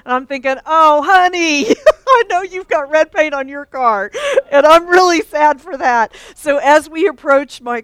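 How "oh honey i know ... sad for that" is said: mock pity. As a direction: coo with a laugh at the poor new car. Thinking of the Lexus owner.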